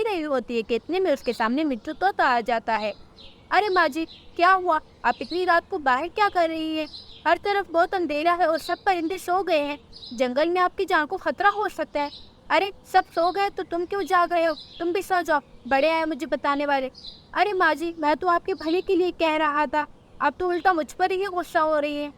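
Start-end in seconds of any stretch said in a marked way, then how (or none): 3.5-12.1 higher-pitched worried parrot; concerned parrot. Acted. Mitthu warns the mother about the dark, concerned. 12.5-16.9 put-on higher-pitched dismissive old bird; snappish old bird. Old bird tells parrot to go sleep, dismissive. 17.3-22.1 higher-pitched, mildly hurt parrot; protesting parrot. Acted. Parrot tells old bird he meant well, protesting.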